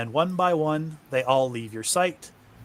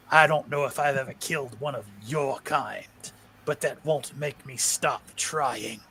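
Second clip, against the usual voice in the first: defiant. Acted. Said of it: "Mark looks at him and says".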